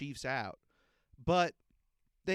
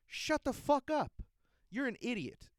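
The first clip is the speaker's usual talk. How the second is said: high furious yell; angry shout; 8 semitones higher than usual. Real, not acted. Fan yelling at the mayor, high angry shout. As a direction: snap it at him with contempt.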